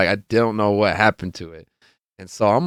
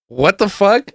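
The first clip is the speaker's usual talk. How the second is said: high, incredulous mock reaction; retold astonishment; 10 semitones higher, slower than usual. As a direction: act out the friend's disbelief. Acting friend's amazement at coincidence.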